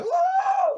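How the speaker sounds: very high, loud shriek of fright; startled scream. Retold or imitated. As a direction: scream as the sheet is yanked away. Spirit pulls the sheets.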